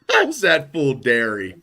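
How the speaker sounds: slow mock Californian accent; co-host imitates the host's dairy line, drawn-out Cali accent. Draw it out in a put-on California accent. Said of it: "the Cali accent".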